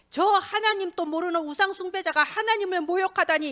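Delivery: acted holy anger, kept in check; righteous indignation. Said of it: "그 거룩한 분노를 느끼고".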